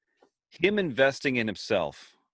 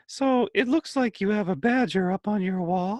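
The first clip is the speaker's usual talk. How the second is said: higher voice, every phrase rising like a question; upward inflection; 9 semitones higher than usual. Retold or imitated. Host mocking coworkers who talk in questions, rising tune. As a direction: make the statement lilt up at the end. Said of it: "everything ends in that upward inflection".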